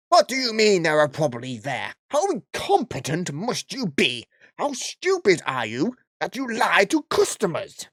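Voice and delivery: hammed-up angry customer yelling; mock yell. Karen screaming at the shopper she thinks works there, mock yelling. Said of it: "at being screamed at".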